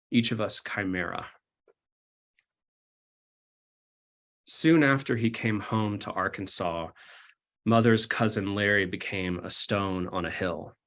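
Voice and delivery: measured poem recital with long pauses; poetry reading. Acted. Poet reads new work to the audience, measured poetry reading. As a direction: read it as verse, line by line, pausing between.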